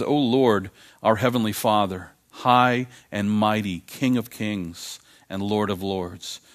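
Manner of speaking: slow, hushed, reverent prayer reading. Acted. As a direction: read it slowly as if praying. Reads an old prayer aloud.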